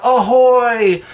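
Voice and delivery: high, drawn-out call from below; yelled pirate hail. A narrator's reading. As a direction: call up to the fort, pitched high. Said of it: "heard Maria call out".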